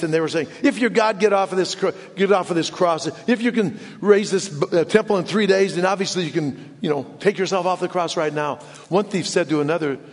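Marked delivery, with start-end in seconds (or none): 0.6-8.6 raised, higher taunting voice, mildly heated; mock ranting. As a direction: imitate a jeering crowd. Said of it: "people were ranting and raving at Christ".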